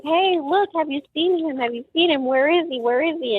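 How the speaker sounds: high, urgent retold pleas; frantic questioning. Mother asking people in the road, frantic. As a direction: fire repeated questions, desperate but not shouted.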